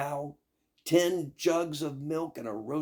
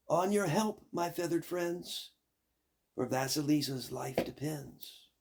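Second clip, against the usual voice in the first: clear call; 3 semitones higher than usual. Acted. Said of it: "called out in a clear voice".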